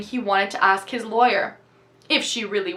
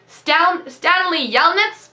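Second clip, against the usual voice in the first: higher, louder call across the lake; 7 semitones higher, 4 dB louder, slower than usual. A narrator's reading. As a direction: call his name from a distance. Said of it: "she called".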